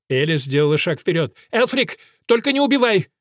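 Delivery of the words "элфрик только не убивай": намного выше, женским голосом; взмолиться в страхе; испуганная мольба. A narrator's reading. Элис в страхе умоляет. (Элис в страхе умоляет мужа)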